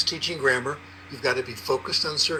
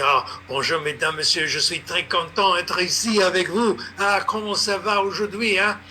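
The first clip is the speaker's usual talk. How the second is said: a hammed-up, slightly higher French accent, mocking the language; 4 semitones higher than usual. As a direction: play the cheeky schoolboy overdoing his French accent. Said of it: "foolishly exaggerate a French accent".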